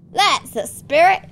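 loud, high, drawn-out faked Australian cheer; Australian dad. Dad encouraging his son, hearty faked Australian accent. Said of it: "so bad at Australian accent".

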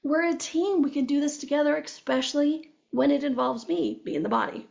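high-pitched, protesting voice of the body; the body talking. Retold or imitated. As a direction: speak up as the sidelined body, high. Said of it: "your body's like".

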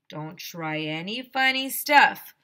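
slow, firm principal threat; stern threat. Acted. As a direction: lay down the law.

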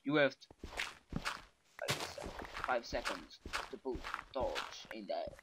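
broken English, slow and low; lightly put-on broken English; made-up English. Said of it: "o meu inglês inventado".

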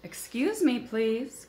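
high, squeaky little mouse call; lightly voiced timid mouse; small mouse voice. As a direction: call up politely like a tiny mouse. Small mouse calls from snowdrift.

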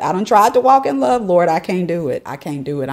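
mock exasperated plea to the Lord; hammed-up fed-up lament; exasperated cry that fades to defeat; retold exasperation. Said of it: "I was just like".

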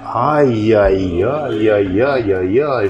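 slow drawn-out tutting. Acted. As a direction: click your tongue in mock pity. Doctor tuts at patient's story.

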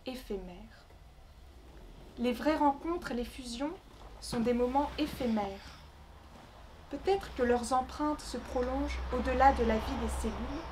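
measured recital with long pauses between phrases; poem reading. Acted. Poet reading her Congo travel poem to the gathering, measured recital. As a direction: recite it line by line, letting each phrase settle.

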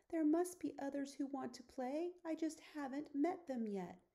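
a small cub talking himself into hope; hopeful lion cub. Acted.

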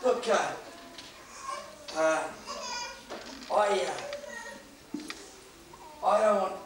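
mildly soothing bear, halting with long pauses; understated soothing plea, feeling for the words. Acted. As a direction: reason gently and hesitantly with the hunter. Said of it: "in a very soothing voice".

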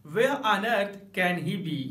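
slow "Where on earth can he be?", "Where" stressed; drawn out "Where on earth can he be?"; emphatic. Shown as a demonstration. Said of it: "ऐसे भी बोल सकते हैं". ("Where on earth can he be?" ज़ोर देकर)

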